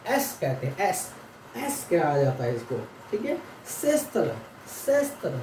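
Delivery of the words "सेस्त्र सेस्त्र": सेस्त्र said as "sestr", rolled r at the end; Russian pronunciation demo. Shown as a demonstration. Teacher models Russian word for students, careful pronunciation. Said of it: "यानी कि S को denote करेगा".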